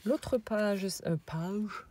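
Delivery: mock rustic peasant accent on "L'autre page". Vlogger showing album pages, self-mocking peasant accent. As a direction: slip into a hammed-up French peasant accent. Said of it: "avec mon accent de paysan".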